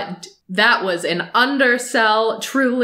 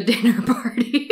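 ordinary talk

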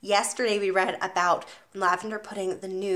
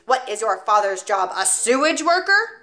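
1 scornful headmistress; 5 dB louder than usual. Acted. Trunchbull insults the boy.

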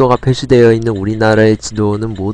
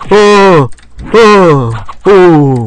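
louder, higher alarmed yelps; startled cries; 5 semitones higher, 5 dB louder, much slower than usual. Real, not acted. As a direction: react startled to the attack. Startled by boss attack.

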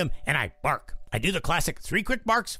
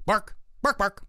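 short, punchy, higher-pitched spoken barks; decisive one-two bark; 4 semitones higher than usual. Shown as a demonstration. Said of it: "a decisive one-two punch like this".

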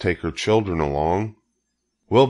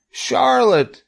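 very high, wailed name; anguished moan; 5 dB louder than usual. A narrator's reading. Wilbur grieves for his dying friend, anguished moan. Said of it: "he moaned".

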